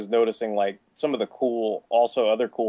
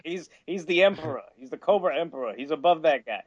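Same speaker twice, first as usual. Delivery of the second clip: lightly voiced exec, higher pitch; mock sales pitch, insisting on the idea; pushy executive; 6 semitones higher than usual. Exec insists on new character.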